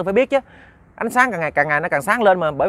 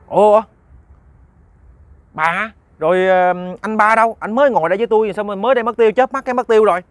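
high, loud bewilderment; jolted, demanding where he vanished to; startled; 6 semitones higher, 5 dB louder than usual. Acted. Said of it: "ông Tư ông mới dung mình một cái". (giật mình, hoảng hốt nói lớn)

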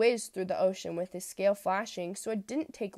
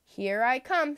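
loud cheerful reply; happy call; 5 semitones higher, 5 dB louder, slower than usual. Acted. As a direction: bound off to join them. Rainbow fish joins happily.

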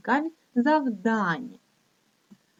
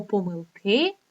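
помилки stressed on the final И; stress on last syllable; slower than usual. Shown as a demonstration. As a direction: lean on КИ in помилки. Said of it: "має лише один наголос".

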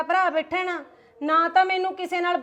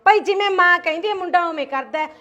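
angry; 3 semitones higher, 6 dB louder than usual. Acted. Quarrel continues.

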